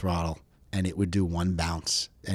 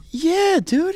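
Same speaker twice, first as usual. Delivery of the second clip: put-on light Greek accent, pitched higher; 7 dB louder than usual. Greek buddy shrugging off the alligator, light Greek accent. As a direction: drawl it like a relaxed Greek buddy. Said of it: "my friend with the heavy Greek accent".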